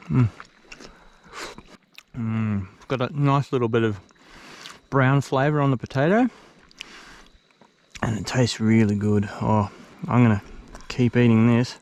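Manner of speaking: talking through a mouthful; words around a bite of food; chewing while talking. Real, not acted. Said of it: "apologise for the eating noises".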